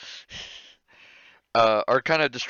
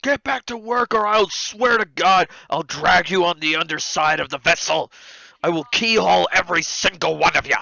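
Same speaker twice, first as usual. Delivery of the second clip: raised, higher-pitched threatening yell; first mate yelling; 5 semitones higher, 4 dB louder than usual. Acted. First mate threatens distracted sailors with keelhauling, yelling. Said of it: "he just yells at the, the, you know, the sailors".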